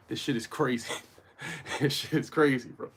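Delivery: laughing between the words; amused disbelief. Real, not acted. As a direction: laugh at how crazy it is. Laughs at viewers' contradiction.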